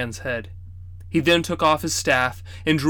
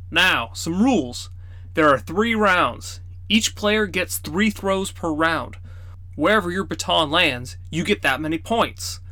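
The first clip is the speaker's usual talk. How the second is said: grandfather explaining rules; 4 semitones higher than usual. Acted. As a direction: spell out the rules patiently.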